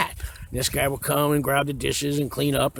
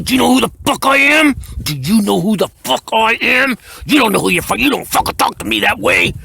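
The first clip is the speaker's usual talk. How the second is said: loud, high furious yell in his face; furious cellmate; 7 semitones higher, 7 dB louder than usual. Retold or imitated. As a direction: roar it like a man who just snapped. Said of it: "This guy flew off the".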